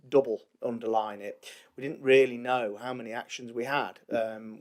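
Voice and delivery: ordinary talk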